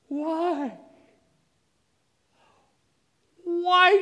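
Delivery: anguished screaming. Retold or imitated. Father cries out to God over his injured daughter, anguished loud scream. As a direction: hurl the why up at heaven, raw and torn. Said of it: "I was screaming".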